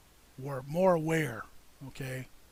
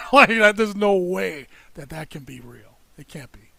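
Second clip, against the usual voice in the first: laughing disbelief; 9 dB louder than usual. Real, not acted.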